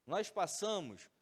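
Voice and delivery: throat catching with a frog in it. Real, not acted. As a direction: speak through a frog in the throat. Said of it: "eu tô com um pigarro na garganta".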